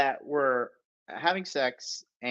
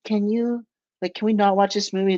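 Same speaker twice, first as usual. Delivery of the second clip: mock broken English; 8 semitones higher, 3 dB louder than usual. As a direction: imitate her halting English, pitched up. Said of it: "she can barely speak English".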